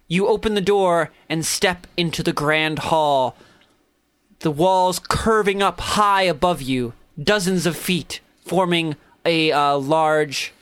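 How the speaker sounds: measured scene-setting with pauses; game master narration. A narrator's reading. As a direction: unveil the grand hall phrase by phrase.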